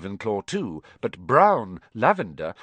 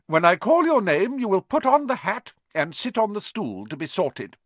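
higher, louder stern teacher's call; McGonagall announcing; 9 semitones higher, 4 dB louder than usual. A narrator's reading. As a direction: announce it crisply to the new students. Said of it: "she said".

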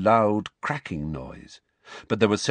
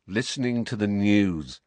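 resigned. Acted. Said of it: "in a resigned voice".

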